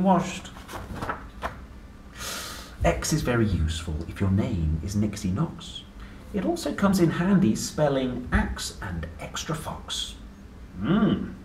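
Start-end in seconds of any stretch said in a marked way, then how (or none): 2.8-10.1 lively sing-song picture-book reading; reading to children. Acted. Parent reading an ABC book to a child, playful sing-song. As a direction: read it out like a bedtime book for a small child.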